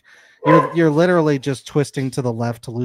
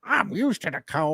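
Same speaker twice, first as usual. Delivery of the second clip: put-on Minnesota accent; 5 semitones higher, 4 dB quieter than usual. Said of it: "the speaker's, uh, Minnesota accent".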